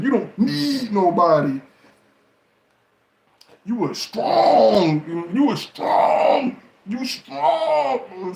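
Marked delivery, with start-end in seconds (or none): 3.6-8.3 hammed-up teary high voice, slowed right down; fake-sob it out, high and drawn out; mock crying. Mocking women who claim they need no man, with hammed-up sobbing.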